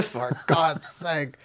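put-on British accent. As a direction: exclaim it like an outraged Brit. Louder mock British echo.

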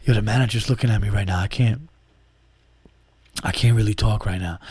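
hushed so the manager won't hear; work voice. Retold or imitated. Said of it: "I'm trying to keep a straight face".

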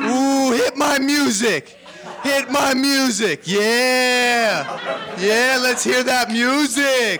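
slow, high wrestling heel shouts; heel shouting for music. Acted. Heel demands his entrance music.

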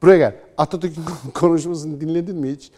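mock scolding retort. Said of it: "diyeceksiniz ki".

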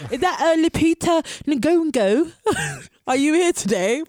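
hesitant teacher mangling a register name; mock supply teacher reading the register. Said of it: "You sounded like the fucking supply teacher".

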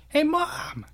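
very high, loud call; imitated shout to mom; yelling for mom. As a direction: holler for your mother like the guy in the video. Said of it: "he's just yelling at his mom".

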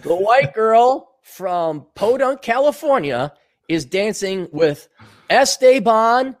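put-on slow, overdone Spanish accent on Esteban; a gringa hamming up a Spanish accent; Spanish accent, a bit too proud of itself; mock Spanish accent. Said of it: "Make the sentence pronounced correctly".

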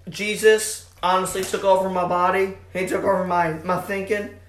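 lightly put-on Southern accent; Russell Wilson. Host parodying a quarterback's interviews, Southern accent. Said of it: "every Russell Wilson interview is like".

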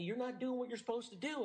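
mild mock shout, finger pointing. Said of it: "shouting at me".

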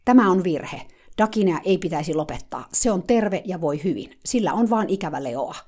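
loud, fervent protest; heated voice. Retold or imitated. Eager helper protesting at the meeting, heated. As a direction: insist hotly that they've got it wrong. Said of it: "sanoi kiihkeällä äänellä".

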